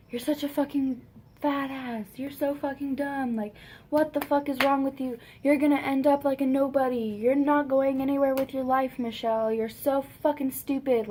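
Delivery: mildly voiced mom's tirade, insult after insult; imitated ranting. Mom going off on daughter, lightly imitated angry rant. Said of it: "she kept on ranting and ranting and ranting".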